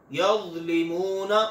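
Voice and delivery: यज़लिमूना with a thick, soft zha and no whistle; Arabic zha, thick and soft; heavy soft zha. Shown as a demonstration. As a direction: say यज़लिमूना with a full, gentle zha. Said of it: "वा की आवाज मोटी और नरम".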